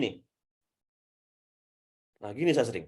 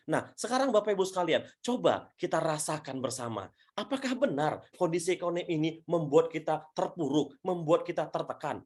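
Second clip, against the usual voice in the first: demonstration presenter. Shown as a demonstration. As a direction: invite listeners to feel it with you. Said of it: "Sehingga saya bisa ngomong begini".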